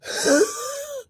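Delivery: high strained out-of-breath gasp; exhausted high-pitched pant; winded gasping sigh. Shown as a demonstration. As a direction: gasp like you're spent after thirty seconds of cardio. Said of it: "that's how I sounded".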